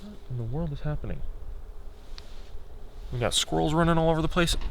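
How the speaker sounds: normal talking voice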